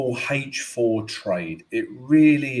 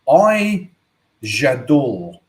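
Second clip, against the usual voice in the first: a playful put-on French accent; 2 semitones higher, 7 dB louder, much slower than usual. French accent to his trading viewers, slipped in playfully. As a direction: purr it like a Frenchman. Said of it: "I don't know why I've gone French".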